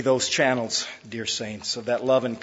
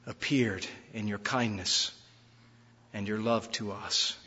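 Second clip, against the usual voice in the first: prayer; 3 dB louder than usual. Acted. Pastor praying for the church, hushed and reverent.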